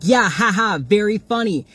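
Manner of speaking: mimicked sarcastic comeback; imitated sarcasm. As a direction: imitate a woman scoffing at their laughter. Woman mockingly answers the group's laughter.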